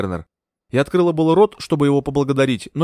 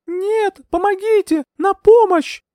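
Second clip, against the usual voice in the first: much higher desperate scream; 5 dB louder, slower than usual. A narrator's reading. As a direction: scream as the needle goes in. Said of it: "закричала я". (отчаянный крик)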